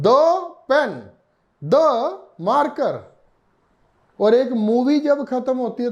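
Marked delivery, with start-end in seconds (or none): 0.0-3.0 "the" said as dee before pen and marker; teacher's slow demo of "the"; the pronounced dee. Shown as a demonstration. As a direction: say "the" as dee, slowly and clearly. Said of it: "मैं कहता हूं".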